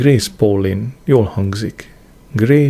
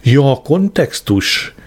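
slow, raised irritated exclamation; irritated cry; 4 semitones higher, slower than usual. A narrator's reading. Marigold snaps back at his explanation, drawn-out irritation. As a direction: draw it out higher, testily. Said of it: "kiáltott ingerülten".

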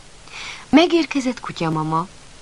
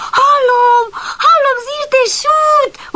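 much higher, loud, slow and thrilled; jumping with excitement; 8 dB louder, much slower than usual. Acted. Excited puppy hears the noises and jumps about, thrilled shout. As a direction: shout it while bouncing with glee. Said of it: "ugrált Pamacs".

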